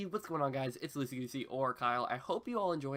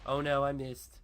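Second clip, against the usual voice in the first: louder cry of mock alarm, Australian accent; loud, hammed-up dismay; 2 semitones higher, 8 dB louder than usual. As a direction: call out the miss in a put-on Australian accent. Missed hit on creeper in skit.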